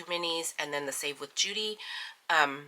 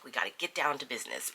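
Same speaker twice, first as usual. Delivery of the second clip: brisk, lower, fast all-business voice; mock business mode; 3 semitones lower, 5 dB quieter, faster than usual. Poking fun at her own businesslike budget videos, brisk and fast. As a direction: snap into serious money mode. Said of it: "all, like, business".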